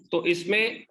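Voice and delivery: usual speaking voice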